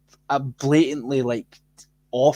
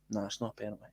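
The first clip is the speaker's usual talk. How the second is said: dismissive mock ref; 6 semitones lower, 14 dB quieter, much faster than usual. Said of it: "just went".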